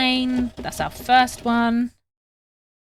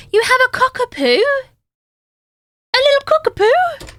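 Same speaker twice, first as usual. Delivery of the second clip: high-pitched delighted squeal, a bit louder; excited squeal; 5 dB louder than usual. Real, not acted. Streamer squeals with delight over a chatter's cockapoo. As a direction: gush over the little dog in a squeaky voice.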